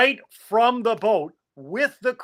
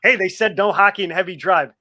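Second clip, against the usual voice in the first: mock shout; 2 semitones higher, 6 dB louder than usual. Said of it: "You know".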